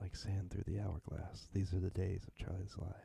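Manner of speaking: very quiet, low, sultry, creaky sensual voice. Asked by the other speaker for a sound bite, saying the line in a sensual voice. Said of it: "sensual voice?".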